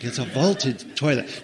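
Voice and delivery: slow, lofty mock-official tone; mock grandeur. The storyteller mocking the park's fancy name, slow and lofty. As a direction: say it as if it were a cathedral. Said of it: "It makes it sound so cathedral-like".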